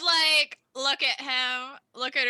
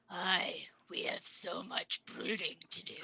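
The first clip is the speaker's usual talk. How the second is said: very soft, low whisper; hushed in-character whisper; 6 semitones lower, 12 dB quieter than usual. Acted. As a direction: whisper it under your breath, in character. Player voices her character's mocking reply.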